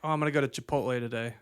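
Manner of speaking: quick, casual run-through of the sentence; said fast. Shown as a demonstration. Showing friends how it comes out in a sentence, said fast. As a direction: rattle it off like an everyday remark. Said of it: "I just say it fast".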